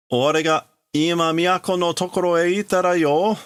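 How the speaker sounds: high, eager character voice; Kaneda's voice. Acted. Kaneda charging in tells friends, high eager voice. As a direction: rush in with the news. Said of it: "So this is Kaneda again coming in".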